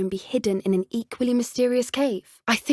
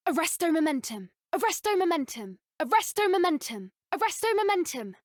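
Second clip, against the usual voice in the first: higher, commanding incantation; higher battle incantation; spell cast; 5 semitones higher, 3 dB quieter than usual. Acted. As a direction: freeze the enemy with it. Casting spell in combat.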